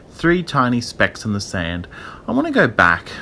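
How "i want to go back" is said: put-on high, pleading child whimper; frightened little-girl voice. A narrator's reading. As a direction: whimper to turn back. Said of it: "Tara whimpered".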